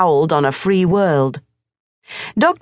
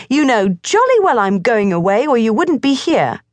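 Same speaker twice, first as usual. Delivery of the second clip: put-on high boyish scold; 6 semitones higher than usual. A narrator's reading. Morris scolds the cat Lord Hugh, high boyish voice. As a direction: tell off the cat.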